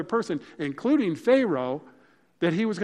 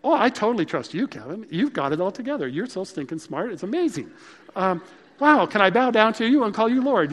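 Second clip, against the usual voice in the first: mock adoring wife; 4 semitones higher, 5 dB louder than usual. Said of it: "I really wanted her to say".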